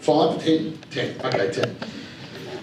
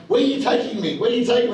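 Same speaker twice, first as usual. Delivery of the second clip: put-on higher, bewildered old mother asking; confused mum; 7 semitones higher, faster than usual. Mother with dementia asks her son where he's taking her, confused and higher.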